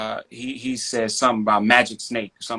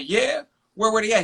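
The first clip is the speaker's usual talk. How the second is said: mock amazed; 9 semitones higher than usual. Dad plays along, mock amazed.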